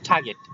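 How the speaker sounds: "টার্গেট" with a puff of air on the t; airy burst opening "টার্গেট"; aspirated T. Shown as a demonstration. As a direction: repeat "টার্গেট" for pupils, t strongly aspirated. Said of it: "এভাবে".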